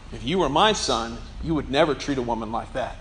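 low, quiet and controlled warning; retold teacher's stern reprimand; stern rebuke. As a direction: lay down the law in a low, soft voice.

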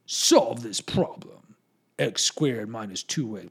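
loud, slow priestly command; imitating a dreaded priest, drawn out; stern old priest. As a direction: dictate the problem like a feared old teacher. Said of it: "then he'd be like".

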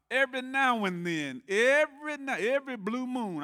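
rising preacher fervor. Real, not acted. Preacher teasing the congregation for an amen, loud and climbing. Preacher building to a joking crescendo.

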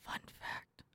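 slow, deliberate reading voice; customer service voice. Acted. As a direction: read it out slowly, overly polite. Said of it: "my customer service voice".

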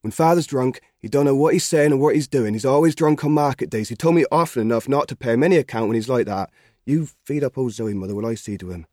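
a keen lad pleading for his father; lightly voiced country boy, earnest; young Albert. Albert speaking to his mother.

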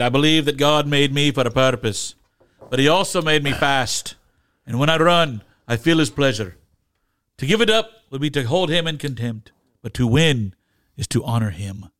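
put-on a gentle Scottish accent for a famous movie line. Co-host quoting Chariots of Fire to his partner, in a light Scottish accent.

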